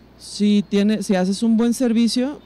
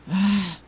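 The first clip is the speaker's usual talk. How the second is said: imitated gasp of disbelief; mock shocked gasp. Guest retelling the couple learning she's Mexican, shocked gasp. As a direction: draw in a stunned breath.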